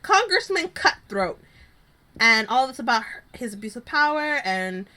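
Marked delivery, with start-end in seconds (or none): 0.0-1.4 slow scornful jab. Retold or imitated. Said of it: "is like".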